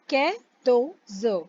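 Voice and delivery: "के तो ज" slowly, syllable by syllable; French quatorze. Shown as a demonstration. Teacher slowly modelling quatorze. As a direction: pace out "के तो ज". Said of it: "फिर है हमारा के".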